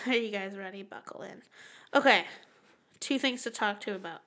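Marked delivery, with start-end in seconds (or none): 0.1-1.4 a hushed whisper; spooky whisper. Pretend. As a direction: whisper it like a ghost story. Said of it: "let's get a little bit spooky".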